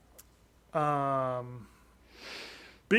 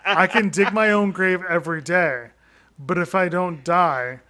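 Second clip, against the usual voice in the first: louder, laughing slogan read; reading a goofy shirt slogan loudly while laughing; mock shirt slogan; 6 dB louder than usual. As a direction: belt out the joke slogan through laughter. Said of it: "no, the shirt is".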